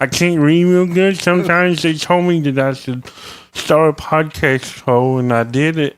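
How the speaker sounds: high, slow dopey hick voice; dumb hick voice. Pretend. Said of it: "I don't know who that was".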